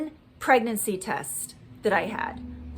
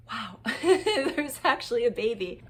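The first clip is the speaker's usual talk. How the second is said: retold wonder broken by a laugh; laughing amazement; 3 dB quieter than usual. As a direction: marvel with a little laugh inside. Retells amazed reaction at first scan.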